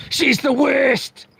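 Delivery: teasing. Real, not acted. Joking about his wife.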